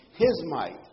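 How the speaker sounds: HIS punched out before "might"; forceful emphasis on "his might"; stress on HIS MIGHT. Real, not acted. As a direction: hit "his" hard, then land "might". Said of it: "I wanna emphasize the term his might".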